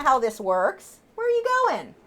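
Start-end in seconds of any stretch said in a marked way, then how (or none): 1.1-1.9 high swooping question to a pet; high pet scolding. Real, not acted. Owner catching her bird leaving again, high pet scolding. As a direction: pitch it up at a runaway pet.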